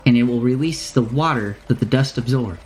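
put-on merchant in a wandering accent, improvising; lightly voiced shopkeeper. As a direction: ramble through the sales instructions, stopping and starting. Shopkeeper explains and warns.

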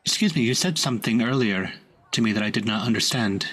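lightly put-on fantasy accent; Sylvan accent. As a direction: say it in a Sylvan lilt. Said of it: "in a similar accent to the Sylvan".

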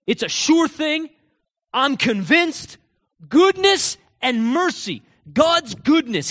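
high, loud, impassioned proclamation; David's confident declaration. Acted. David declaring God's goodness while being hunted, impassioned conviction. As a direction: preach it with total conviction, stretching key phrases. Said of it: "hear how he would talk".

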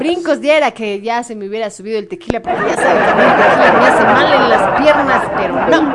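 loud, laughing aside. Real, not acted. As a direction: laugh through the joke. Laughing about tequila.

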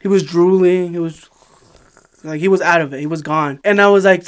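ordinary delivery

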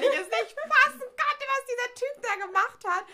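real laughing retelling; laughing disbelief. Real, not acted. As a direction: laugh through it, still can't believe it.

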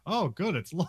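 high, laughing sarcastic reply; mock delight, laughing. Courtesan mocking the long poem, laughing and sarcastic. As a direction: fake enthusiasm through a laugh. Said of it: "And she's like".

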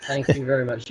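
broad Norfolk accent. Real, not acted. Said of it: "my Norfolk dialect".

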